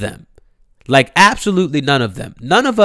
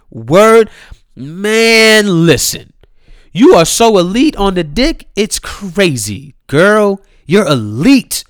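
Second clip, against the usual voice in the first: louder and higher hype; hyped up; 6 semitones higher, 5 dB louder, slower than usual. Real, not acted. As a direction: pump her up loudly. Hyping up Tierra Marie.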